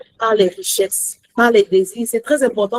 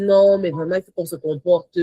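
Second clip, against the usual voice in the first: prim reproach; 5 semitones lower than usual. Retold or imitated. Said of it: "Commence à dire".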